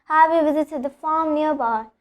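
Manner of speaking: "farm" with a held A sound; continue the A in "farm"; lengthened vowel before R. Shown as a demonstration. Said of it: "I'm just continuing the farm A sound".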